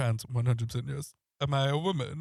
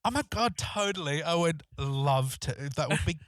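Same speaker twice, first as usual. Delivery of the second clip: gushing, higher-pitched; fake excited; 4 semitones higher than usual. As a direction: gush with fake enthusiasm. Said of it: "So I was like".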